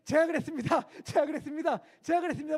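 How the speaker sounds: loud, high eager confession repeated; eager recruit confessing. Retold or imitated. Recruit the officer hoped would confess. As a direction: step forward and confess eagerly. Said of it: "뭘 기대했냐면".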